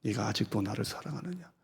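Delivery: quiet tender pleading; tender question. Acted. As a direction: ask it softly with sorrow. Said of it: "나는 항상 아직도를 넣어요".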